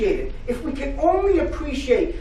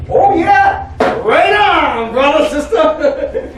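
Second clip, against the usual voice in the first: the mind cheering; 5 semitones higher, 5 dB louder, slower than usual. Retold or imitated. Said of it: "And then the mind's gonna say".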